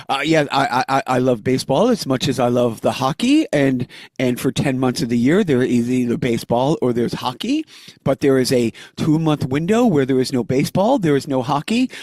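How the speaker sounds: put-on understated French accent telling a dirty joke; a touch of French accent, deadpan punchline. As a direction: lightly imitate an old man's French accent, deadpan. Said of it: "I think I can do the accent".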